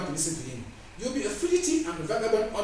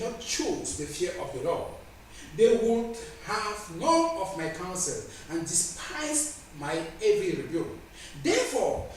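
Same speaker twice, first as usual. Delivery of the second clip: scripture declamation. Acted. Preacher reading God's judgment on scoffers, declaimed. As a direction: lean on each phrase and stretch it out.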